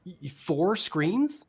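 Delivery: slow stunned question; incredulous. Real, not acted. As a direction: sound stunned by the number. Incredulous at four screens.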